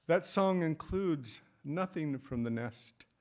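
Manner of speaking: measured recital with weighty pauses; poem reading. Acted. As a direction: let each phrase land before the next. Reads own elegy aloud.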